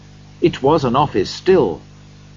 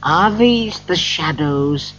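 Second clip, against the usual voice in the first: Scrooge afraid; 5 semitones higher than usual. A narrator's reading. Scrooge, afraid, questions the spirit.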